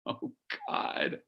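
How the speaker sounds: high, breathless gasp of longing; breathy swoon. Real, not acted. Son swooning to Mom over a lover's lips, breathless. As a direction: let it slip out, overwhelmed.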